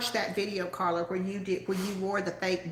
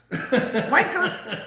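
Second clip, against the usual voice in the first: laughing repeat; 3 semitones higher, 6 dB louder than usual. Retold or imitated. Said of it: "He says".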